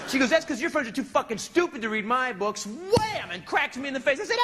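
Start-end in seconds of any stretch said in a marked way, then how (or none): 0.3-2.7 raised-pitch mock rant; a touch of an irate wife snapping back; acted furious wife. 2.7-3.3 high, punched-out comic impact; exclaimed slap effect. Retold or imitated. Voices the slap.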